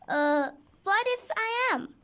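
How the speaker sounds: wary, guarded question; suspicious. A narrator's reading. Dennis answering the judge, suspicious and guarded. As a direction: ask it like you suspect a trap. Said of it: "asked Dennis suspiciously".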